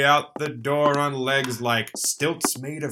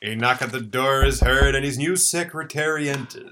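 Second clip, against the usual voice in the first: story narration. A narrator's reading. Narrator setting the scene.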